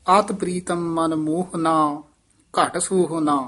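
ਆਤ ਪ੍ਰੀਤਮ ਮਨ ਮੋਹਨਾ, then a clear pause before ਘਟ ਸੋਹਨਾ; pause after ਮੋਹਨਾ. Shown as a demonstration. Teacher demonstrates the pause to the student, with a rest after ਮੋਹਨਾ. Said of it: "ਇੱਥੇ ਵਿਸਰਾਮ ਹੈ".

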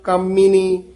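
ਕਾਮਿਨੀ with short first vowel and pressed m; tightened m. Shown as a demonstration. Teacher correcting a pupil, ਕਾਮਿਨੀ with firm double m. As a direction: press the m in ਕਾਮਿਨੀ, like kam-mini. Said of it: "ਥੋੜ੍ਹਾ ਜਿਹਾ ਕੱਸ ਕੇ".

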